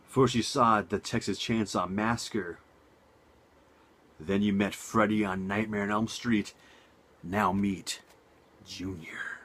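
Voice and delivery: measured trailer-style read with dramatic pauses; dramatic tagline, hushed on the last word; movie tagline read. Acted. Reads out a film tagline.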